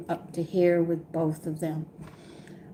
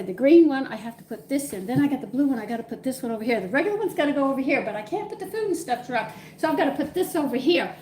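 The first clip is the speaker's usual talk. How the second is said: higher, fast, flustered muttering over bins; fussed self-talk; 5 semitones higher, faster than usual. Retold or imitated. Showing viewers how she sorts the trash, higher hurried fluster. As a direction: rattle through it like you're drowning in recycling.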